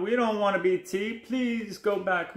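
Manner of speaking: high, worried fish voice; lightly acted high-pitched plea; pleading cod. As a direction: beg the shark to leave. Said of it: "cried the cod".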